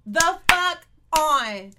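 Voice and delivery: slow, high, sung-out laughing whine; laughing drawn-out protest. Real, not acted. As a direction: stretch it out in laughing disbelief. Friend doesn't know the song.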